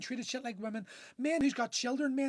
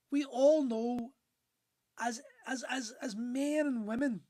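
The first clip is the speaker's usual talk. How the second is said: real crying breaking through the words; fighting tears, slowing down; slower than usual. Real, not acted. Appealing to men and women, voice cracking with tears. Emotional plea to all men.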